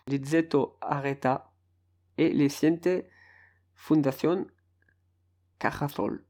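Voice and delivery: attempted Spanish accent, pausing between names; best Spanish accent. Shown as a demonstration. Podcaster ending the Spanish team list in his best Spanish accent. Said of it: "Voilà, mon plus bel accent".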